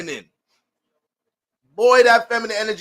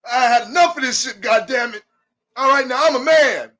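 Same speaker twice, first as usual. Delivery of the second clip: fired-up declaration; 5 semitones higher, 4 dB louder than usual. Acted. Acted Libra asserting himself.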